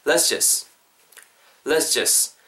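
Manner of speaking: "Let's just" joined as "les-jes" for repeating; linked model pronunciation. Shown as a demonstration. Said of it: "한번 따라와 보실래요?".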